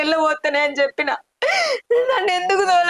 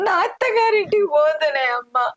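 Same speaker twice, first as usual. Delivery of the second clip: crying. Acted. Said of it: "ఏడోకు బిడ్డ".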